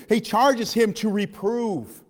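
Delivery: very slow, weighted words; slow emphasis. Acted. Preacher reading the charge to the church, very slow. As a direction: read it out like a solemn charge.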